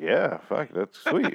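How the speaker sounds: swooping high, casual eager yes; mock enthusiastic buy-in; eager agreement. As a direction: play an easygoing guy jumping at the offer. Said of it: "And he's like".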